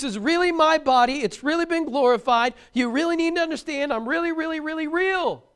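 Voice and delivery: preacher insisting with delight; excited insistence. Acted. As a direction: pile up the reallys with growing zeal. Insisting Jesus is real.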